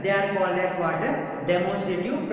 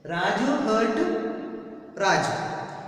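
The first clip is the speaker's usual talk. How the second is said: slow wrong example, each word apart; slow, drawn-out wrong example; slow, deliberate example; much slower than usual. Shown as a demonstration. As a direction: spell out the mistake slowly. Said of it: "So we should not use the same noun again".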